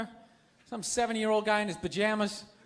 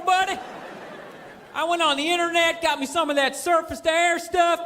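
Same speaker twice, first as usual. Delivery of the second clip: redneck; 4 semitones higher than usual. Acted. Comic redneck telling the army about his hunting gear, bragging twang. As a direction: play a redneck proudly telling a hunting yarn. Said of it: "You draft a redneck".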